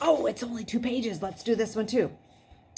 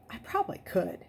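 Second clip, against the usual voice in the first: bragging; 2 semitones higher than usual. A narrator's reading. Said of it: "she bragged".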